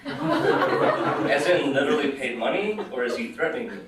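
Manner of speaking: lightly puzzled, amused question; amused and bemused. Acted. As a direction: ask it half entertained, half baffled. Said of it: "equally amused and bemused by the situation".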